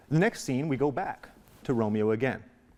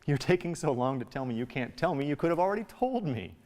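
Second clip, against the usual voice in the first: impatient; 4 semitones higher than usual. Acted. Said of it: "Very impatient".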